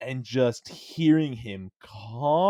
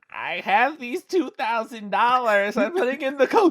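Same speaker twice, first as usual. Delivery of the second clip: put-on acted old-lady voice, much higher pitch, louder; 12 semitones higher, 5 dB louder than usual. Pretending to be a grandma while entering a gift card code, imitating an old grandma. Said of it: "pretending to be this grandma".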